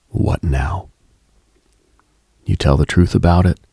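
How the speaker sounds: ordinary talk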